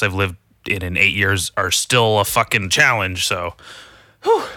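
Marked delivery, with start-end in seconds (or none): 4.2-4.4 breathy whew. Real, not acted. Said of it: "out of breath".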